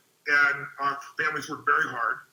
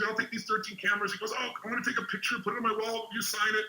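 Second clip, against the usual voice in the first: higher, eager clerk's chatter; excited store clerk; 5 semitones higher, 4 dB quieter, faster than usual. Retold or imitated. Clerk asks famous customer for a signed picture, excited. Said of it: "the guy was all excited".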